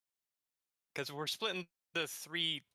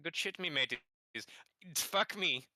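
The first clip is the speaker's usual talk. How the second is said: put-on Irish accent. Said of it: "let's get right into the Irish accent".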